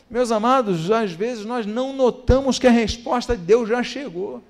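usual speaking voice

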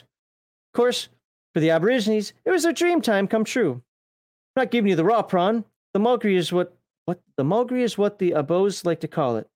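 lightly put-on Australian storyteller; mild mock-Aussie lilt; Australian accent. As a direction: read it out in a half-hearted Australian accent. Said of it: "I hate speaking Australian".

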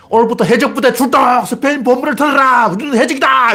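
high, sustained rallying cry; mock king launching the pirates; royal proclamation. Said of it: "이렇게 선언하면 안 되죠".

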